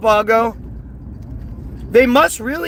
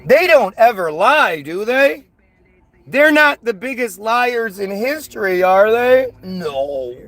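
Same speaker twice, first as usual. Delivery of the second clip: sarcastic innocence. Pretend. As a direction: feign naive disbelief. Sarcastic questions, then mock answer.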